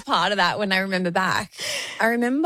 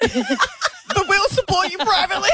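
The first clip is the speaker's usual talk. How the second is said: slow, high words that dissolve into laughter; teasing line melting into a laugh; 9 semitones higher, slower than usual. Real, not acted. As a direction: crack up as the joke lands. Joking about private support.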